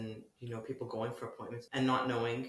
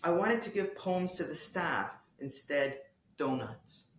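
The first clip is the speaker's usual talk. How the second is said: measured prose reading with lifted openings and falling phrase ends; literary reading. Acted. Poet reads hospital piece to the interviewer, literary reading. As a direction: read it as a poet, pausing between phrases.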